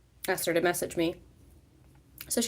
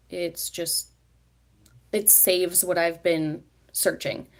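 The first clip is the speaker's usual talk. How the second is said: talking through hiccups; hiccuping mid-sentence; slower than usual. Real, not acted.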